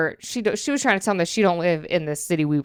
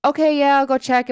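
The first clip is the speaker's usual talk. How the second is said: higher, lightly voiced store clerk; imitating store lady; 7 semitones higher, 4 dB louder than usual. Store lady offering to check the back, higher-pitched imitation. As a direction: mimic her agreeing to check. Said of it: "This is how this lady talked".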